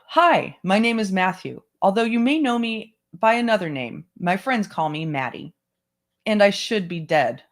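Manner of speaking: measured first-person narration; memoir read-aloud. Acted.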